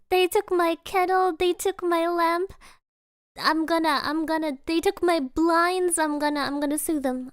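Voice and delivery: hammed-up aggrieved complaining; mimicked robbery victim. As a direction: rant as the robbed woman, playfully. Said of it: "that woman got robbed".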